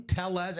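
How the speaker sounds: Tellez with the L sound pronounced; anglicized name. Shown as a demonstration. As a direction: say Tellez as English TELL-ez, L heard. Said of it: "he pronounces it Tellez".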